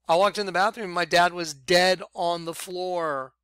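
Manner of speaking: usual speaking voice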